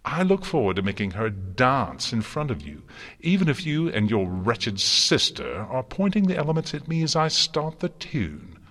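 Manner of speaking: high, loud villainous relish; mad gleeful joy. A narrator's reading. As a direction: lose control into gleeful threats. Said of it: "filled with a mad, gleeful joy".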